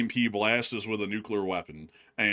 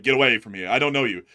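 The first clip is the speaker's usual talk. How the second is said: imitating wary dealer; 6 dB louder than usual. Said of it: "then he's like".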